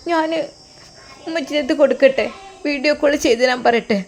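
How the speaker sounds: put-on high, childlike voice of a small daughter; little girl voice. Daughter calling her father on the phone, high childlike voice.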